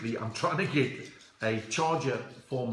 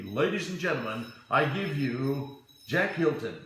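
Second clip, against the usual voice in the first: mock announcer. Introduces Jack as an act.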